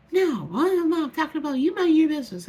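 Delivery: retold retort. Other woman's retort, voiced.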